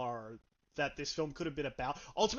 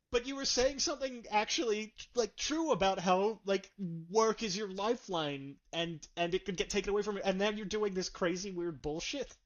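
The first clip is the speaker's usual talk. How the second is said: higher-pitched exasperated protest; 4 semitones higher than usual. Retold or imitated. Film reviewer protesting an absurd plot turn, exasperated. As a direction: let the disbelief push the voice up.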